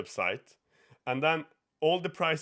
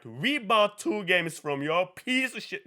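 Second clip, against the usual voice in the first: slow, higher-pitched mock fury; exaggerated anger; 6 semitones higher than usual. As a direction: overplay an angry customer's complaint. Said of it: "she wasn't that angry".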